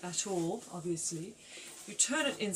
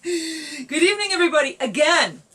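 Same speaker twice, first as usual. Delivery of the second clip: fake Cockney accent; 4 semitones higher, 9 dB louder than usual. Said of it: "that's a little fake Cockney accent there thrown in".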